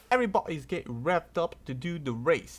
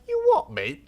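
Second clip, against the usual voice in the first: jumps way up, louder; high squeaky "you what"; 6 dB louder than usual. Retold or imitated. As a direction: shriek it in disbelief. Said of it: "They like".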